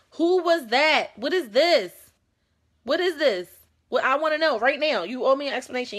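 demanding confrontation. Acted. Demanding answers from a partner about a caller. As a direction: grill them, wanting answers now.

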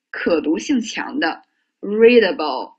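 readable read slowly with stress on the first syllable; teacher reading readable slowly for the class; slow careful demo. Shown as a demonstration. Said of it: "你们听辉哥读一下啊".

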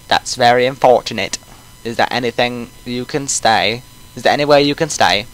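put-on old coot with a British accent; lightly voiced British old man. Player voices the old man, British accent. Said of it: "He's gonna have a British accent".

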